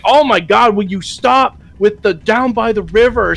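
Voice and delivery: high, exasperated mock whine; high mock fed-up complaint. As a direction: groan it, fed up. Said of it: "he's like".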